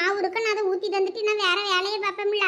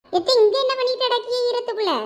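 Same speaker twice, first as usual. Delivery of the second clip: calling out; 5 semitones higher than usual. Acted. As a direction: call out to her sitting in the rain. Calling out to aunt in rain.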